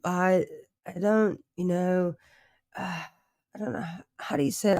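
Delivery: put-on high, halting posh British accent; posh accent imitation. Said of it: "make you sound too posh".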